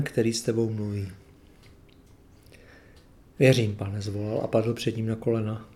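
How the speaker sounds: measured, earnest Bible reading voice; scripture reading. Acted. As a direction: read the Gospel story aloud to the congregation. Reads the Gospel passage aloud.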